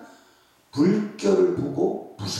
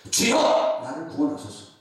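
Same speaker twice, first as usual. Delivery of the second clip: crying out in prayer; 2 semitones higher than usual. Shown as a demonstration. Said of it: "상황을 원망하지 마시고".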